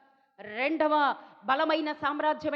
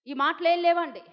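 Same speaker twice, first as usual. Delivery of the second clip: ఈ మాటలు ఏం లేవండి louder with ఏం punched; emphatic denial; 4 dB louder than usual. Shown as a demonstration. Preacher insisting to church there was no war talk, louder. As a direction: repeat it louder, hitting ఏం.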